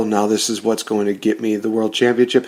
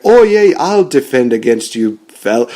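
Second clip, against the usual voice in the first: mock Sheamus accent; 4 dB louder than usual. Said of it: "Sorry, I'm just gonna stop".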